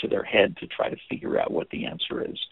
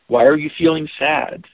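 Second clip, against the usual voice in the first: a louder probing "Why are you feeling sad?"; intrusive question; 2 semitones higher, 5 dB louder than usual. Shown as a demonstration. Teacher shows how an intrusive question sounds. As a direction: push the question at them. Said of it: "that can just feel so intrusive".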